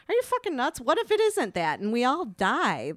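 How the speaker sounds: high-pitched incredulous retort, easing down; alarmed disbelief. Retold or imitated. Mother retelling objection to son eating wild mushroom, incredulous. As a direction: re-enact balking at a reckless idea.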